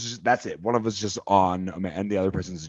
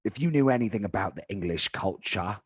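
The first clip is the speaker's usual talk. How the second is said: put-on British accent. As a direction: list the British stars with pride in a British accent. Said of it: "You sound like a dirty redcoat".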